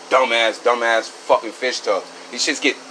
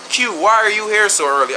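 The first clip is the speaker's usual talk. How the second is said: higher-pitched imitation of the boss; lightly voiced boss, pitched up; mimicking boss; 8 semitones higher, 3 dB louder, faster than usual. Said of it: "My boss asked".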